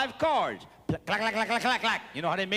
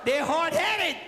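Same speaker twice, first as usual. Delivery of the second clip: emphatic shout; 5 semitones higher than usual. Real, not acted. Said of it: "repeated emphatic line".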